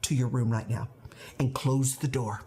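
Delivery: firm, contained parental command; controlled stern order. Retold or imitated. Mother sending daughter to her room, controlled sternness. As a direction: hold the anger in and order firmly. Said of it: "I wasn't capable of saying what I needed".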